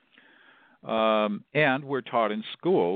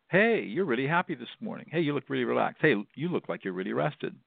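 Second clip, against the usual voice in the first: casual small talk, starting higher and settling; throwaway remark; 4 semitones higher than usual. Shown as a demonstration. Customer to Starbucks barista, throwaway friendly remark. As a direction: toss it off as a friendly observation. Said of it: "like this, just really throw away".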